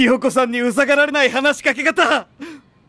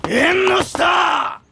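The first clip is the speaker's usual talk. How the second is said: anguished slow cry; 3 semitones higher, much slower than usual. Acted.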